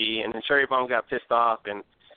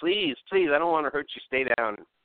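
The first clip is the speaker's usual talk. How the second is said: mock screaming, higher pitch; 4 semitones higher than usual. Retelling how one woman begged another to stay down, mock-screaming and begging. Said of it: "she would just start screaming at her like".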